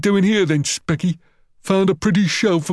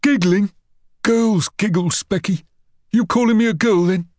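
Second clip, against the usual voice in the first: high, threatening challenge; indignant schoolyard menace; affronted bully; 9 semitones higher, 3 dB louder than usual. Acted. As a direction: confront your victim, pitch jumping up.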